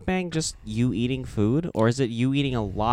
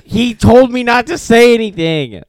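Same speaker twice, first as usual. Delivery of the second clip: laughing; 10 semitones higher, 10 dB louder than usual. Real, not acted. Laughing while playing lawyer bit.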